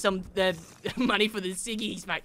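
Australian bloke voice. Retold or imitated. Imitating an Australian mate, light Aussie accent. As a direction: lightly voice an Australian asking for ciggie money. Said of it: "And they go".

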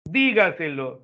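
"Dígaselo" said slowly as one whole word; drawn-out demo word. Shown as a demonstration. Teacher presenting an example word to students, slow whole-word "Dígaselo". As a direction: stretch "Dígaselo" a little, stress on the first syllable "Dí". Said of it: "tengo que saber qué clase de palabra es".

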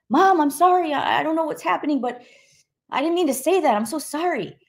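high-pitched, pleading retold apology; acting out a helpless, upset apology, pitched well up; distressed apology. Frightened daughter apologizing to mom on the phone, distressed pleading.

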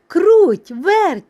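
loud, high rooster's call. A narrator's reading. Rooster hailing two little mice, calling out. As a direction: sing out the names to summon them. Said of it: "став гукати півник".

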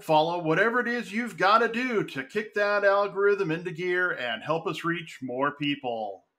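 measured announcer welcome; deliberate, presentational opening read; podcast intro. Acted. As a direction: welcome listeners like a show announcer. Podcast host reads the show opening.

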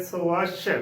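"ਸਵੱਛ" as so-WASH, rounded o; model pronunciation. Shown as a demonstration. Teacher recapping the word for learners, careful model pronunciation. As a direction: say "ਸਵੱਛ" with so and full wa-sh. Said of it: "ਇਸ ਦਾ ਉਚਾਰਨ ਕਰਨਾ ਹੈ".

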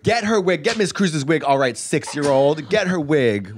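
mock sassy kid. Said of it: "And I was like".

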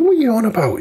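high, incredulous "what"; retelling the moment of utter disbelief; shocked disbelief. Retold or imitated. Retold shock at the accusation.

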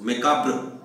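मेकाब्र closing on a short br; light br ending. Shown as a demonstration. Teacher repeating the variant for students, मेकाब्र with br ending. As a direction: say मेकाब्र with the r just sounded. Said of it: "ऐसा भी बोल सकते हैं इसको".

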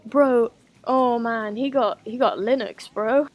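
drawn-out loud groan of disbelief; slow, loud, exasperated; loud exasperation. Real, not acted. Gamer discovering the computer runs Linux, loud disbelief.

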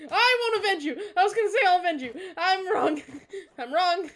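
loud, high, yelling through laughter; giddy high yell, laughing at his own slip; laughing shout. Real, not acted. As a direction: crack up while shouting the mistake. Laughing outburst at friend's death.

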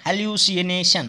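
"हेलुसिनेशन" stretched as hel-yoo-si-e-nay-shun; slowly sounded out. Shown as a demonstration. Teacher helping students spell it, "हेलुसिनेशन" slow and drawn out. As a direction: draw out "हेलुसिनेशन" part by part.

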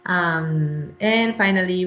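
ordinary delivery

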